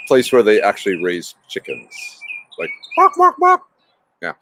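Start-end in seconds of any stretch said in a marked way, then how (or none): 3.0-3.6 high, loud yappy mock barks; playful high yips of a mock dog; dog bark imitation. Imitating dogs at chicken ranch.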